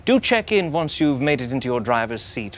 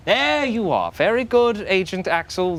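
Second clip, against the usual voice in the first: high mock praise; 8 semitones higher than usual. Handler praises agent.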